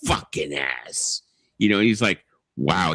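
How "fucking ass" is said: put-on British accent. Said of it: "You're doing a very good British accent".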